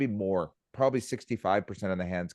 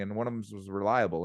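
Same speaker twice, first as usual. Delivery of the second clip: ordinary delivery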